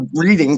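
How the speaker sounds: "reading" with a long ee, like the verb; Reading mispronounced as "reeding". Retold or imitated. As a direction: say "reading" as REE-ding. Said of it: "and he called it reading".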